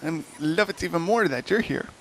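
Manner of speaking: high, eager little hobbit voice; a hobbit gushing about his job, high and bright. Acted. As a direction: squeak it out like a delighted little hobbit. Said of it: "He's like".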